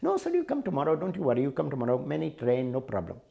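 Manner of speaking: sing-song polite clerk brushing him off; railway clerk. Retold or imitated. Clerk refuses ticket again.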